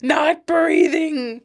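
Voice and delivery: very slow, drawn-out deadpan. Pretend. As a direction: drag it out dryly. Joking answer.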